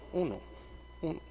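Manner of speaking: echo. Shown as a demonstration. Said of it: "como cuando dices uno".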